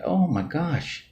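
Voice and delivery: drawn-out high "oh my gosh"; slow, high mock astonishment; amazed gasp. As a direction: act stunned, stretching the words. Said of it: "And I'm like".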